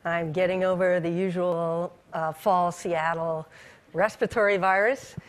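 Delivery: hoarse from a cold; scratchy, recovering voice. Real, not acted. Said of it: "I apologize for my scratchy voice".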